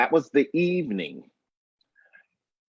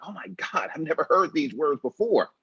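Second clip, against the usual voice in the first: stunned; 5 semitones higher, faster than usual. Retold or imitated. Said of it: "I'm stunned".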